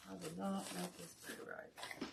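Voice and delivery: quiet rueful aside over the craft table; muttered to herself. Real, not acted. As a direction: drop the voice, talking to yourself.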